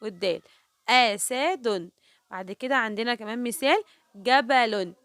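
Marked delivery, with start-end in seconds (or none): 0.9-1.9 "أسد" drawn out, each letter sounded apart; teacher segmenting "أسد"; syllable by syllable. Shown as a demonstration. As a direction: say "أسد" very slowly in separate pieces. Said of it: "نطقت كل حرف لوحده".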